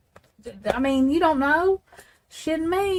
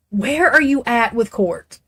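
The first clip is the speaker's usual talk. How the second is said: deliberate repeat; slower than usual. Real, not acted. Repeats the question more deliberately.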